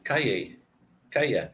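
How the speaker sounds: "calle" with the L's as a Y sound; double L as Y. Shown as a demonstration. Teaching the word for street, "calle" said with a Y. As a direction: say "calle" with a y in the middle. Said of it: "two L's are a Y".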